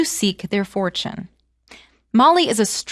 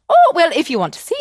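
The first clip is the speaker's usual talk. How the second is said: sly invitation; 7 semitones higher, 6 dB louder, faster than usual. Acted. Molly baits the giant's wife.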